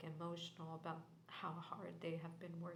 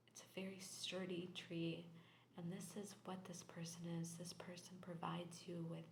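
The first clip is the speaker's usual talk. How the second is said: whisper. Real, not acted. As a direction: breathe the reading out in a hush. Tarot reading in whisper.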